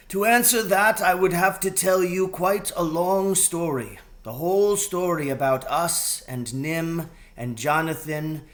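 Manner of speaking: lightly voiced mouse mother, earnest; voiced Mrs Frisby. Mrs Frisbey's figure voice, raised.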